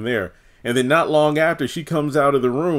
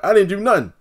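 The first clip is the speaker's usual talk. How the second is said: higher, whiny mock innocence; high defensive denial; 9 semitones higher, faster than usual. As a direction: play dumb in a much higher voice. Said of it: "It's like".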